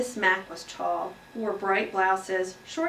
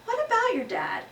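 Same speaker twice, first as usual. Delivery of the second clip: teacher question; 14 semitones higher than usual. Acted. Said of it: "Missus Brisbane asked".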